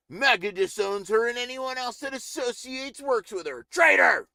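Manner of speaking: low sneering read building to a shout; reading as Stephen Chong. Retold or imitated. Streamer reading a hostile tweet, ending in a shout. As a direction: read the tweet with contempt, end yelling. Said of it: "This is how he talks".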